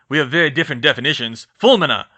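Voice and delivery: quick quip. Acted. Quick quip then spell.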